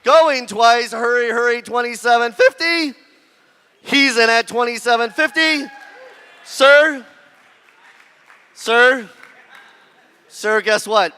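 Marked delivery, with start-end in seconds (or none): 0.0-5.7 rapid auctioneer bid calling. Real, not acted. 6.4-9.1 loud call to a bidder. Real, not acted. Auctioneer calling to a bidder.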